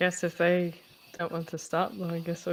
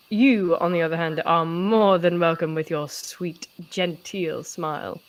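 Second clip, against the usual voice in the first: sarcastic; 4 dB louder than usual. Acted. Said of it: "I'm sensing some sarcasm".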